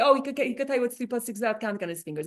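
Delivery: mocking a praise that insults; dismissive mock quote. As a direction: rattle it off like a lame compliment. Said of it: "to introduce him and say".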